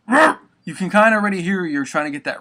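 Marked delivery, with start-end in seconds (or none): 0.1-0.4 very high, loud barking roar; dog bark. Shown as a demonstration. Imitating a dog to teach the roar, high barking roar. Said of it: "if you were trying to imitate".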